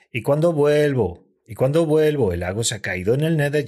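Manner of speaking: mock stretched cuándo vuelvo, then rushed line; drawn-out wrong timing. Host mimicking Auron's off-beat rap, drawn out. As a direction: drag "¿Y cuándo vuelvo?" out then rush the rest. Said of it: "porque dices".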